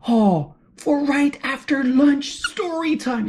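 slow, drawn-out storybook read-aloud; story reading to children. A narrator's reading. Reading to children about Todd the toad, slow storytelling. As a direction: read slowly, lingering on the key words.

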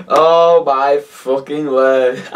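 oh my word, stretched and slow; slow disbelief. Real, not acted. Vlogger reacting to a diss track, slow disbelief. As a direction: drag it out slowly in disbelief.

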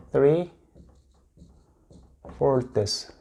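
"three" and "fourths" said apart with a pause between; "three fourths" spoken clearly to repeat; model pronunciation. Shown as a demonstration. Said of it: "이렇게 읽는데요".

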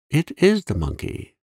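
high, bright cry of discovery; excited cry. A narrator's reading. Girl spotting the monkey in the snow, excited cry. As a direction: call out in delight. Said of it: "she cried out".

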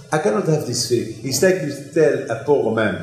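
ordinary talk

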